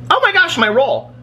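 sudden high alarmed exclamation; surprised cry. Real, not acted. Vlogger remembering her roll in the microwave, startled. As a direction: jolt up in pitch, caught off guard.

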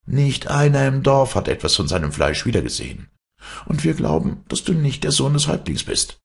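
high-pitched, animated accusation; suspicious village boys confronting a trickster; accusing boys. Acted.

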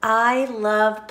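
high loud whee with a laugh, then slow; gleeful snake. Acted. Flying snake shouts with joy, laughing. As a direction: squeal with joy then savor it. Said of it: "And he says".

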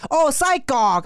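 high "oh" of parents finally getting it; sudden realization. Retold or imitated. Parents seeing the kid's drawing, suddenly understanding.

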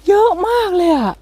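amazed. Real, not acted. Telling viewers how many mushrooms, amazed high voice. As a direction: gasp it out in wonder.

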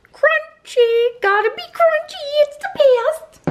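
excited. Real, not acted. Raving about crunchy peanut butter.

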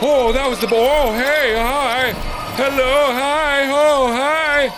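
high, rapid-fire repeated alarm; panicked squeal. Real, not acted. Player regretting the bad wheel, high panicked babble. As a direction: squeal it over and over in rising panic.

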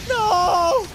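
loud high shout of dismay. Real, not acted. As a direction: yell it in disbelief. Rescue goes wrong.

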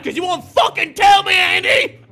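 angry yell; raging gamer. Real, not acted. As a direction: snap and shout his name. Yelling at game agent.

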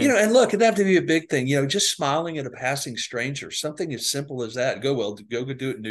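loud, high and eager urging; rally them to go do it; pumped-up pep talk about small kindnesses; excited. Real, not acted. Enthusiastic urging after inspired host.

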